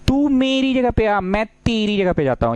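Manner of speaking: sing-song swap offer; playful row voice. Pretend. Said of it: "interchange का मतलब".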